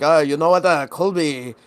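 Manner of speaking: a vague, hard-to-place put-on accent, casual and chummy; lightly voiced tech billionaire lending out his jet; weird Elon voice. Friend mimics the neighbor lending a jet, unsure mock accent. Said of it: "This is fucking weird Elon voice".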